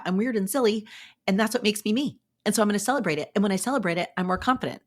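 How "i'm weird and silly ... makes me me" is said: brighter, owning the words "I'm weird and silly"; proudly embracing it. Shown as a demonstration. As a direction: say it like a badge of honour. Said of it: "It's like, yeah".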